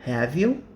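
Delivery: rising question tag; rising tune. Shown as a demonstration. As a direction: have you with a lift on you. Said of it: "When the voice or intonation goes up".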